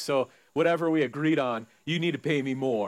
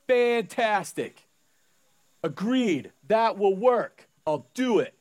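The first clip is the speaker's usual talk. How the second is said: eager workers; 4 semitones higher, slower than usual. Retold or imitated. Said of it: "every one of them goes".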